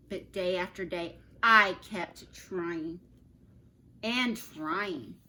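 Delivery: put-on reading a picture book aloud to children; storybook reading. A narrator's reading. Teacher reading Humpty Dumpty story to her class, storybook voice. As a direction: tell the story gently to your class.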